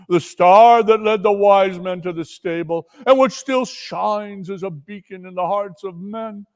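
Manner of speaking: lightly voiced ghost, swelling to loud cries; grieving ghost. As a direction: lament that bursts out. Marley's ghost lamenting.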